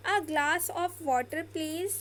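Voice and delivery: slow, polite, rising at the end; polite demo. Shown as a demonstration. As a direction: ask slowly and gently. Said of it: "कितना ज़्यादा polite लग रहा है".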